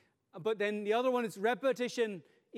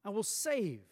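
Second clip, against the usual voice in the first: ready reassurance; 2 semitones higher than usual. Shown as a demonstration. God answering the cry Save Lord, eager then tender. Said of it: "the immediate response is".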